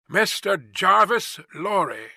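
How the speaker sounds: mild shout across a distance; calling from afar. Acted. Rider answering guard from the mist, slow calling.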